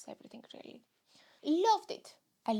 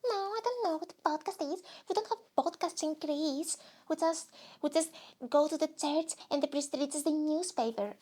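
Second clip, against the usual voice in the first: put-on villager voice, higher, innocent; Greek villager persona; 3 semitones higher than usual. Villager answering the host about podcasts, put-on voice. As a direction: play a bewildered villager from Greece.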